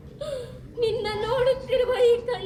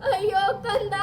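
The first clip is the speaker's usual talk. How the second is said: weeping mother. Acted. Mother weeps over dead son.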